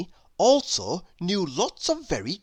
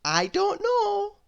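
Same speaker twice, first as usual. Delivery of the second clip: put-on much higher, hurried girl; Miss Brainy voice; slower than usual. A narrator's reading. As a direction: blurt it out nervously. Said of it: "said quickly".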